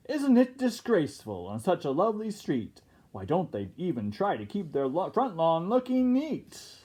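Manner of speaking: lightly voiced prim old neighbor, dragging the last words; a hint of an indignant busybody; fussy neighbor. Neighbor gossiping about the pirates, mildly indignant. Neighbor complains over tea.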